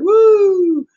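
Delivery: high, loud, drawn-out "woo"; show-off whoop. Acted. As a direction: whoop it up for the camera. Mimes showing off in a picture.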